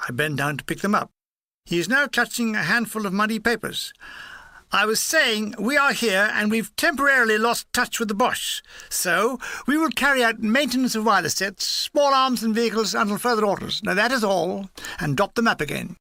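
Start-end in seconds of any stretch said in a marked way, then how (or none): 4.7-14.7 lightly voiced officer, higher-pitched; a hint of an officer reeling off orders; lieutenant briefing his men. Lieutenant with muddy papers briefing the gunners, lightly officious.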